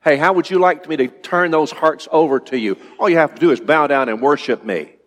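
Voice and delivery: a hint of a smooth, bargaining Satan; mildly acted devil's offer; Satan tempting. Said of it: "Satan is saying".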